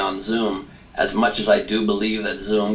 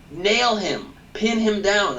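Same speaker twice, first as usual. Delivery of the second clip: urgent rallying; 12 semitones higher, slower than usual. Real, not acted. Urging Biden in debate.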